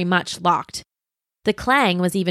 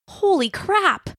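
much higher, slow astonished; awestruck; 11 semitones higher, slower than usual. A narrator's reading. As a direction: drag it out, floored. Stunned at the lair.

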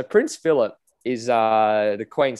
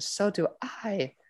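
put-on accidental Asian accent; 7 semitones higher, 8 dB quieter, slower than usual. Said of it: "why Camilla's now Asian".

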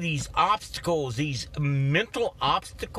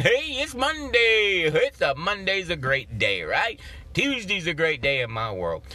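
cheerful Monday. Retold or imitated. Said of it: "I'm going".

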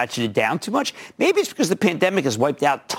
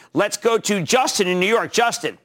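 ordinary delivery

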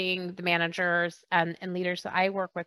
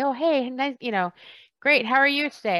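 chirpy; 6 semitones higher, faster than usual. Retold or imitated. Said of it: "somebody will inevitably say".

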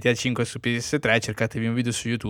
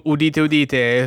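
town crier; 3 semitones higher, slower than usual. Acted. Mock proclamation before a joke.

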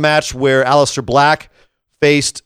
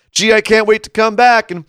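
higher-pitched, hammed-up Canadian accent; Kevin Owens impression; 6 semitones higher than usual. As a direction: play a chipper Canadian family guy, ending on "eh". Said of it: "that's gonna be my Ke-, Kevin Owens impression".

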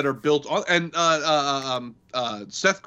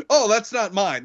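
higher, hurried denial; mock flustered denial; 6 semitones higher than usual. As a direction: deny it, flustered.

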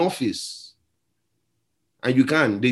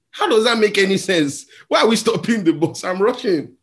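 higher, incredulous mock complaint; exasperated protest; 6 semitones higher than usual. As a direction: plead in disbelief at the fight. Speaker retells his protest.

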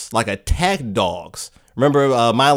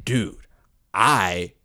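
overwhelmed; 4 semitones lower, 4 dB quieter than usual. Acted. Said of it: "Dalton at this point can't handle it".

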